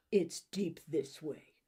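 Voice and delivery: a touch of hoarseness, slow; hoarse. Acted. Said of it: "My voice is hoarse".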